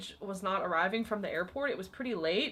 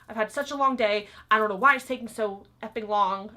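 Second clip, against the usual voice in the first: louder, fed up, complaining; mock exasperated rant; 5 dB louder than usual. Guest ranting at the front desk clerk, loud and fed up. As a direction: vent like a guest tired of waiting. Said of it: "she just went off".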